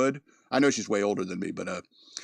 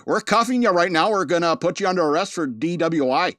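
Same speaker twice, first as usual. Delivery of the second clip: raised, emphatic Wisconsin officer imitation; Wisconsin cop accent; 5 semitones higher, 4 dB louder than usual. Body cam officer making a drunk-driving arrest, Wisconsin accent. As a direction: play a Wisconsin policeman with a broad accent. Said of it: "body cam videos from La Crosse, Wisconsin".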